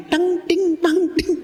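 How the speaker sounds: high-pitched ringing clinks; clinking cutlery imitation. Preacher imitating a couple's silent angry meal, high clinks. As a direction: chime it high like spoon on plate. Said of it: "sendok ketemu piring".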